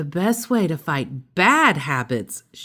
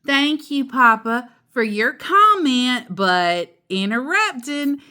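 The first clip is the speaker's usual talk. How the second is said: higher, pointedly polite mother; Mama Bear voice; 5 semitones higher than usual. Acted. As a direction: correct him sweetly but firmly. Mama voiced correcting Papa.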